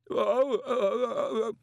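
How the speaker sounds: high, breathless stammer; panting. A narrator's reading. Terrified young wizard pants under pressure. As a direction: gasp out broken sounds. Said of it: "Collarbone panted".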